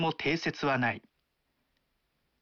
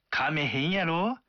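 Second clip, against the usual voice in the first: coaxing customer. Acted. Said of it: "などと客はそそのかし".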